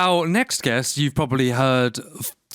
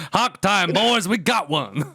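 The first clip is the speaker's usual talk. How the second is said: put-on higher, drawn-out Southern redneck accent; rally the boys in a mock redneck accent; 5 semitones higher, slower than usual. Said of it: "resident redneck".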